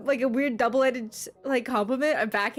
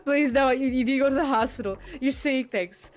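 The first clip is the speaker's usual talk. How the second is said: higher-pitched, worked-up pleading; exasperated pleading; 4 semitones higher than usual. Real, not acted. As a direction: beg chat to stop, exasperated. Pleads with chat over wrong guesses.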